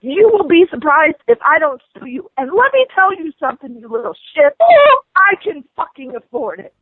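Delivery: rising, furious rant at the agent; angry rant. Real, not acted. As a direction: let the anger build and spill over.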